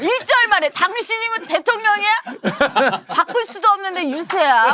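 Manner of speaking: very high-pitched, bickering voice. Acting out what their mom said, imitating mom's tone. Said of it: "이게 다 저희 엄마 톤이에요".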